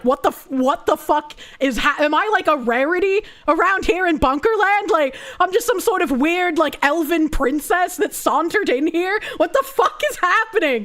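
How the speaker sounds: high, laughing rant of disbelief. Retold or imitated. To the audience about the compliments, laughing incredulous rant. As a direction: laugh through the baffled questions. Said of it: "but this was just like".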